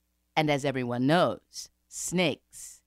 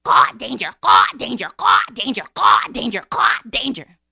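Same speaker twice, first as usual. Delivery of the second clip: loud, urgent crow cries; crow sounding alarm; 5 semitones higher, 12 dB louder than usual. A narrator's reading. Crow warns the forest of danger, cawing alarm. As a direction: caw out a repeated warning. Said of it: "So, he sounded the alarm".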